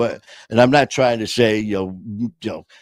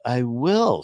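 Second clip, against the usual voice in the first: imitated mom, pitched up; a hint of a put-upon mother brushing it off; lightly voiced, higher clueless reply; 4 semitones higher than usual. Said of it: "you know, like, clueless".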